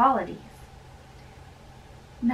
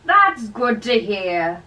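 loud, then a slow high whisper; prying old friar; 4 semitones higher, 9 dB louder, slower than usual. Acted. Friar pressing the young man for secrets, slow loud whisper. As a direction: lean in and whisper the question slowly.

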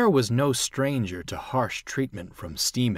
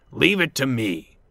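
cheerful, higher reassurance; smiling; 4 semitones higher, 4 dB louder than usual. A narrator's reading. Bear agrees to take Dudley's train, smiling. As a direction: offer help with a smile. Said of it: "Bear smiled".

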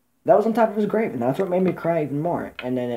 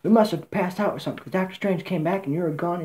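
higher-pitched, lightly voiced eager kid; excited Spider-Man; 4 semitones higher than usual. Spider-Man explaining his return to Tony, excited. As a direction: ramble up high like the young hero catching up his mentor. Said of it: "Spider-Man's like".

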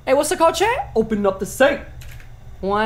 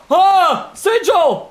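startled; 4 semitones higher, 3 dB louder, much slower than usual. Real, not acted. Startled find in horror game.

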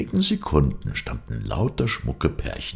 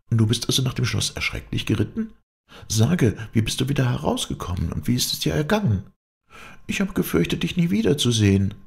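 much higher-pitched princess voice; anxious princess; 10 semitones higher than usual. Acted. Princess greets the returned knight, high anxious voice. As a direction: play the princess, high and concerned.

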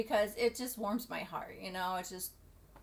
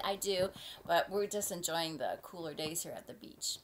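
usual speaking voice

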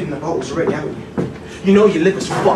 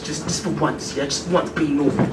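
tired plea; 6 semitones lower, 7 dB quieter than usual. Acted. Son pleading softly.

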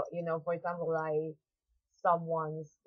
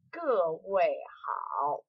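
slow demo; much slower than usual. Shown as a demonstration. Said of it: "或者是".

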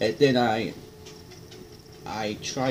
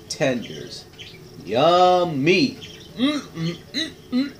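chewing while humming; eating crispy fried chicken; mouth full of chicken; 8 semitones higher, 5 dB louder, slower than usual. Real, not acted. Seen 0: Bites tender at 0-0.8, then chews with squinted eyes, mouth full.

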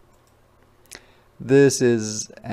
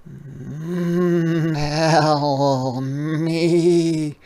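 a hummed, lightly raised jaguar voice; curious jaguar; 5 semitones higher, 5 dB louder, much slower than usual. Acted. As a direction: coax it out, a little higher. Jaguar voiced in read story.

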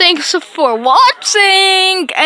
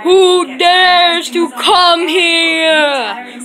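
booming tree voice; much slower than usual. Pretend. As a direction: drawl like an ancient tree. Tree character booming intro.

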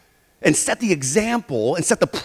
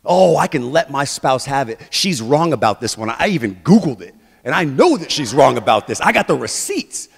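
self-righteous; 3 semitones lower, 5 dB louder than usual. Acted. Voicing a self-righteous spouse.

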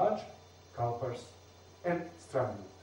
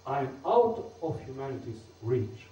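"I'm out of humanity's reach" in anapaests, leaning on "out"; near-impotent anapaests; 2 semitones lower than usual. Shown as a demonstration. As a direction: let "I'm out of humanity's reach" run weakly toward each stress. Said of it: "the second sounds near impotent".

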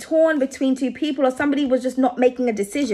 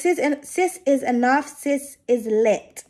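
slow read of the card text, stumbling on "Sis"; halting first read; slower than usual. Real, not acted. Tarot reader tripping over the card text, halting and slow. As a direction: sound out the card's words haltingly, tripping at the start. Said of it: "I don't know why I can't read today".

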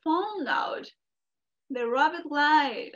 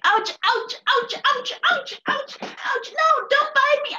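high pained ouches, rising higher each time; screaming in pain; 11 semitones higher, 3 dB louder than usual. Acted. Coyote stung all over by bees, yelping high. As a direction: yelp as the bees sting. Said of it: "he started screaming".

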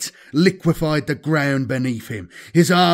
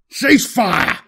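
growl; 8 semitones higher, 4 dB louder than usual. Acted. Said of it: "Apollos growled into the Vox".

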